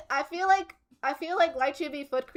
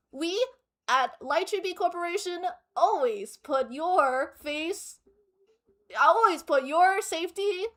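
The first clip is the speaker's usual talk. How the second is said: cheery ad read with side-effects list; advertiser voice. Pretend. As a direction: keep selling, brightly. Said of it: "Best advertiser voice?".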